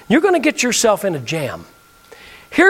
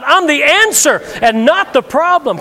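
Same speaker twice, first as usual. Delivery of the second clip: louder declaration to the crowd; 5 semitones higher, 3 dB louder than usual. Shown as a demonstration. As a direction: call it out boldly. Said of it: "Come on, say it out loud".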